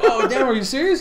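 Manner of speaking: laughing retold reply. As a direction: laugh while you ask it. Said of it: "I was like".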